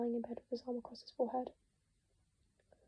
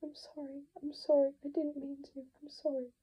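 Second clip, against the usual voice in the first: distraught apology; 4 semitones higher than usual. Acted.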